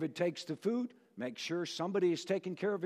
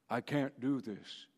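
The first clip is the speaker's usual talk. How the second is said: quiet complaint; 7 semitones lower, 8 dB quieter than usual. Acted. David struggling under armor.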